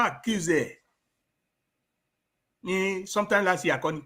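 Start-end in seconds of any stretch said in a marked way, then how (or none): none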